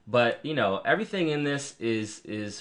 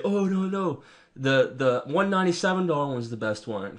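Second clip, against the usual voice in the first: mock salesy voice; 4 semitones higher than usual. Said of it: "you'll have other people that'll say".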